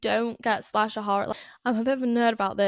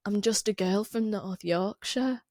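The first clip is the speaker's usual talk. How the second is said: slow, drawn-out imitation of a Yorkshire accent; mock Yorkshire accent. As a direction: put on a bad actress's broad Yorkshire. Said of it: "Like, she goes".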